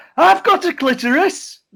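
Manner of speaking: shrill, loud, drawn-out scream, very high. Retelling a heckle from a man in the audience: imitating a man screaming. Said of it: "a bloke screaming at me going".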